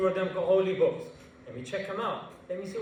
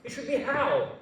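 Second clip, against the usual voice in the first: high, loud scoffing scientist; Richard Dawkins; 7 semitones higher, 4 dB louder than usual. Retold or imitated. Famous atheist dismissing the question why, indignant and high-pitched. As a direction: rebuke the questioner in mock outrage. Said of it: "You ask Richard Dawkins".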